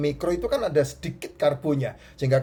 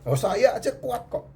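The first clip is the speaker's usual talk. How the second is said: laughing; 8 semitones higher than usual. Real, not acted. Boasting he stays strong fasting.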